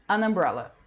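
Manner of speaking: "An umbrella" run together, the n carried onto umbrella; an linked to umbrella. Shown as a demonstration. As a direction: say "An umbrella" as one word. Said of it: "Lembra de falar tudo junto que é mais fácil". ("An umbrella" falado tudo junto, o n ligado à palavra)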